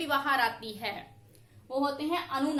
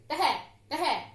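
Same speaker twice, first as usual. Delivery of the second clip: slow visarga demo; much slower than usual. Shown as a demonstration. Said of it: "अब है की आवाज आ रही है विसर्ग".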